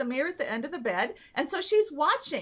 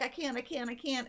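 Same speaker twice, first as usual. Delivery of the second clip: softer repeated protest; mock giving up; 6 dB quieter than usual. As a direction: imitate a mother insisting she can't, quietly. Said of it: "been the one who's like".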